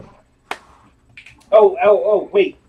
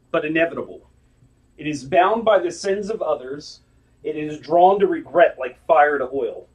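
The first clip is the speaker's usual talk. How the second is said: game master narration. Acted. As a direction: read it like ominous lore. GM reads the entity description.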